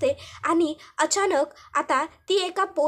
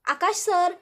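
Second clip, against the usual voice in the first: lightly raised, questioning call; 3 semitones higher, slower than usual. Acted. Ishwari looking for Akash downstairs, mildly calling out. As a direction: call out for someone in the house. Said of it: "आकाशला हाक मारत असते".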